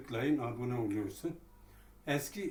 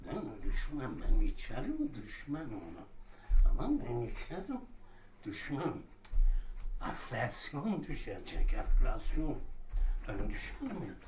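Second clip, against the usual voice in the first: put-on drunk with hiccups; 4 dB louder than usual. Shown as a demonstration. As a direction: play a rambling drunk. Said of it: "sarhoş taklitini yapıyorum".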